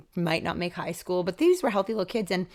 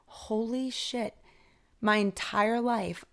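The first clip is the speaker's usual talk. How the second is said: awestruck; 3 semitones higher, much slower than usual. Retold or imitated. Crying in car, awestruck.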